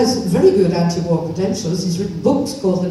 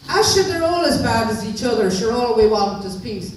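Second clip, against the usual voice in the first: a light mock Irish lilt, quoting the peace crowd; mock Irish brogue, lightly done; Irish accent; 2 semitones higher than usual. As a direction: put on a hint of a Northern Irish voice. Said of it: "I'm saying it in an Irish accent".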